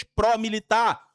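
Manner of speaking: pró-militar with a slow, loud pró; stressed pró. Shown as a demonstration. Teacher stressing the prefix pró for the students. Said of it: "P R O".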